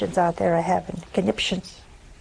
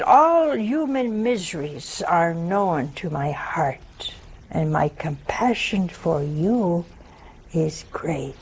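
solemn words of Jesus; 5 semitones lower, slower than usual. Acted. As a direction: speak as Jesus, gently and slowly. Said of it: "He said".

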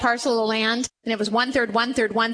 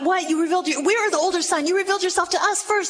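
indignant protest; 5 semitones higher, faster than usual. Acted. Older son's indignant objection.

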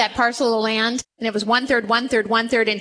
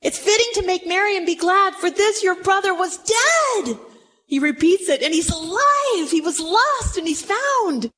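earnest father; 6 semitones higher than usual. Acted. Father insists to elder son.

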